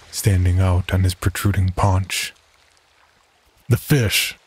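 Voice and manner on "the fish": deep raspy voice. Acted. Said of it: "Teddy repeated in a deep, raspy voice".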